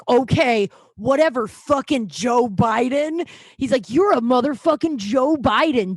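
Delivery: imitating a scornful heckler; mock belligerent. Festival customer insulting the bartender, mock belligerent. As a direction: throw out a drawn-out mock insult.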